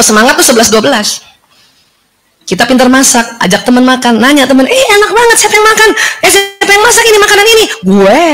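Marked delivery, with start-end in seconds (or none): 4.7-7.6 excited praise. Retold or imitated. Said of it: "friend praising the cooking". 7.8-8.2 smug. Retold or imitated. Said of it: "levelnya apa tuh? Pride".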